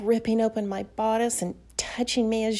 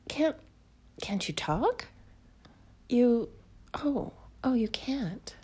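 hushed dismay; 2 semitones higher than usual. Acted. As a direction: breathe it out, let down. Realises the man cannot talk.

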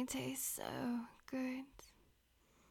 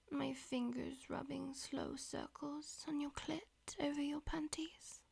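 whispering. Acted. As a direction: whisper it close to the ear. Whispered throughout.

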